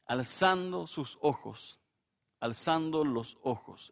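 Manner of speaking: "Alzando sus ojos" drawn out slowly for weight; slow emphasis. Shown as a demonstration. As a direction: linger on "Alzando" to drive the point home.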